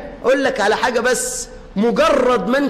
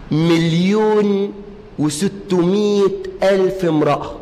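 dramatic reveal; 4 semitones lower, slower than usual. Real, not acted.

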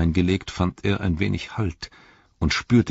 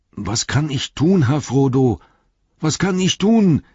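high, loud anxious call; verzweifeltes Rufen; 10 semitones higher, 5 dB louder than usual. A narrator's reading. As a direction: shout down desperate to help, rising in urgency. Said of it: "rief Sam". (laut und bang hinuntergerufen)

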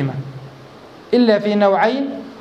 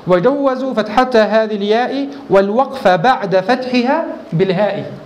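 slow verse recitation; slower than usual. Acted. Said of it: "قال".

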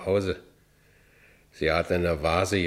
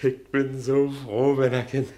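elated; 7 semitones higher than usual. Acted. Franz to Minna, human once more, elated. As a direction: savour the relief in a raised, stretched voice. Elated man after the assault.

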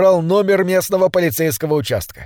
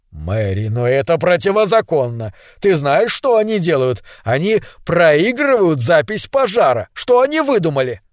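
indignant. Acted. Husband indignant at the loudspeakers.

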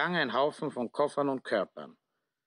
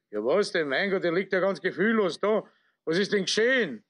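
higher, fast and alarmed; 5 semitones higher, 4 dB louder, faster than usual. Acted. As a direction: fluster over the fallen man. Manager alarmed at collapsed man.

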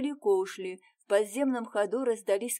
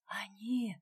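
barely breathed, half-voiced; a girl in the dark whispering her alarm; frightened whisper; 5 dB quieter than usual. A narrator's reading. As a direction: hush it out in alarm. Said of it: "прошептала Варенька".

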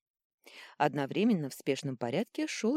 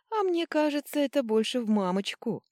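high, louder playful retort; giggly tease; 9 semitones higher, 5 dB louder than usual. A narrator's reading. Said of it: "хихикнула принцесса". (игриво, будто хихикая)

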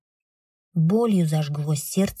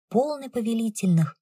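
plain reading voice

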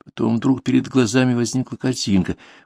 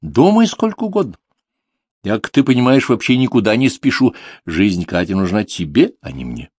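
put-on old junk dealer voice; 3 semitones higher, 3 dB louder than usual. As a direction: toy with him like a smug crone.

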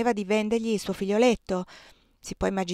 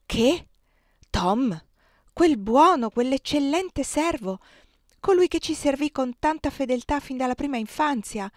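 higher, louder indignant outcry; dismayed, raised voice; appalled disbelief; 5 semitones higher, 4 dB louder than usual. Acted. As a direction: protest in shock, drawing out the praise. Wife appalled that Tom is sold.

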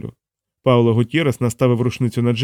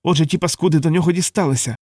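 growled; 5 semitones higher than usual. A narrator's reading. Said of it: "проричав Дейт".

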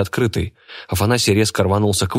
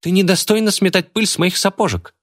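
put-on high haughty girl voice; 12 semitones higher than usual. A narrator's reading. Girl haughtily insults the witch, high voice. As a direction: sneer down at her, pitched high.

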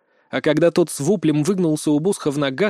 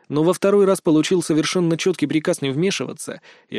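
ordinary delivery

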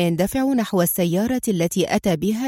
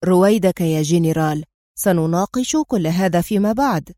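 stern command; 3 semitones lower than usual. Acted. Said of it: "نطقا بصرامة آمرة".

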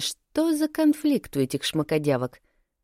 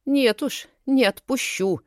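higher, indignant refusal; indignant huffing; 8 semitones higher than usual. A narrator's reading. Narrator indignantly refuses to release the girl. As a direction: huff it out indignantly. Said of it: "возмущённо пыхтела я".

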